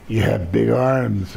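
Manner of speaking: lightly imitating a slow talker; slow-talking promoter. Trainer feeling a new recruit's arms, lightly imitated slow talk. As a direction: draw it out a little, quoting the old trainer. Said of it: "he talked like this".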